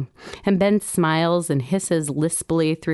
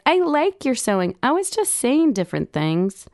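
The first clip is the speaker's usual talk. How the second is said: put-on pleading child; 7 semitones higher than usual. Daughter upset, pleading.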